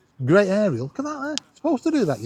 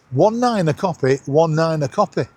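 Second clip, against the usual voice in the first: CB radio call-out. Real, not acted. Vlogger calling out over the CB for anyone listening, radio call-out voice. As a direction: hail anyone listening on channel nineteen. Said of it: "I'm gonna shout out for somebody".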